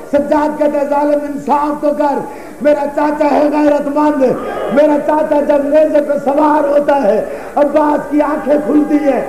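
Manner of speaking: mournful, chanting sermon cadence, lines falling at the ends; lamenting majlis recitation. Acted. Preacher recounting Karbala to mourners, lamenting recitation. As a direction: mourn the tale aloud to the gathering.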